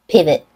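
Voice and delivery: "Pivot" with the T stopped, then released; "Pivot" ending in a held, then released T; stop before release. Shown as a demonstration. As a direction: hold the air briefly before releasing the T in "Pivot". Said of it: "Did you hear the stop?".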